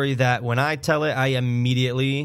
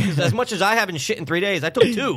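higher-pitched mock justification; defensive retort; 5 semitones higher than usual. Father defends his dose to son, defensive. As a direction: plead the case as a retold dad.

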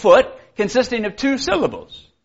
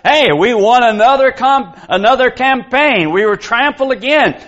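mildly excited victory announcement, raised pitch; 5 semitones higher than usual. Acted. Preacher voices cheering people in Rome, mildly excited. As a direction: lightly voice a cheering crowd's excitement. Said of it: "they're all excited because".

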